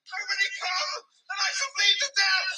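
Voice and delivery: fast, pained cry for help; frantic pained cry; desperate cry. Acted. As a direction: blurt it out fast, in fear of dying. Bleeding man crying for help.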